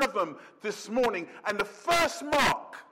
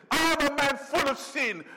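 remorseful confession; 4 semitones higher than usual. Acted. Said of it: "That is the remorse kicking in".

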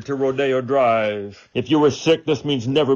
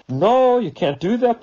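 indignant objection; 11 semitones higher than usual. Retold or imitated. Objectors voiced, indignant protest.

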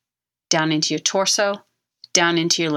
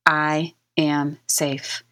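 relaxing into it; much slower than usual. Shown as a demonstration. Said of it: "your body starts to relax into".

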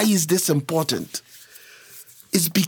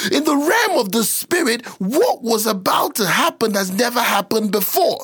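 raised-pitch pulpit emphasis; emphatic preaching; 4 semitones higher than usual. Real, not acted. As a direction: repeat it insistently, starting high. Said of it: "I'm sorry I'm yelling".

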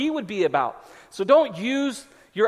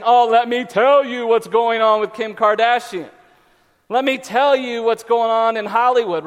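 loud, eager know-it-all; eager gossip; 2 semitones higher, 5 dB louder than usual. Acted. Gossip fan answering about Kim Kardashian, eager and loud. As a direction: launch keenly into celebrity gossip.

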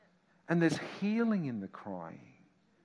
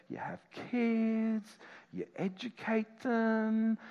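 mock worldly advice; 4 semitones higher, 3 dB louder than usual. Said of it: "let me tell you what the direction is".

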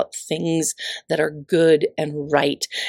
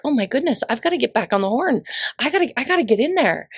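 excited; 5 semitones higher, faster than usual. Retold or imitated. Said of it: "I'm like".

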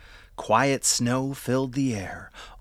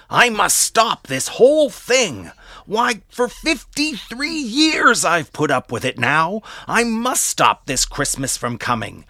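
angry rant; 2 semitones higher, 3 dB louder than usual. Acted. Grinch rants aloud.

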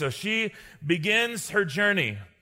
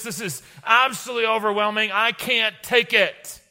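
ranting; 5 semitones higher than usual. Acted. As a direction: vent at Jesus, fed up and overwhelmed. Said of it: "Did you hear me ranting and raving?".

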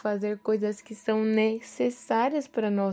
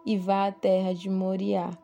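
measured Bible reading aloud; scripture reading. A narrator's reading. Devotional speaker reading Abraão's story to listeners, scripture reading. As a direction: read the passage out with deliberate phrasing.

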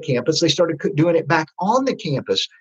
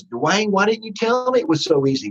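put-on excited girl; 6 semitones higher than usual. Girl bursts out after first visit.

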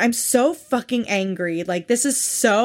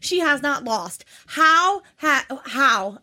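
incredulous; 6 semitones higher than usual. Real, not acted. Incredulous about same weight.

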